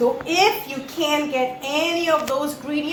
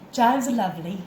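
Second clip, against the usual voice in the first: put-on louder, playful French accent; 3 semitones higher, 5 dB louder than usual. Cook shows off seasoned beef and vegetables, French accent. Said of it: "we speak a little French accent here".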